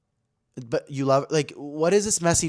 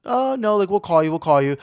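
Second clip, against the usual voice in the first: much higher, louder hurried dodge; nervous brush-off; 7 semitones higher, 6 dB louder than usual. Retold or imitated. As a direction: squeak out a polite escape. They brush off his offer.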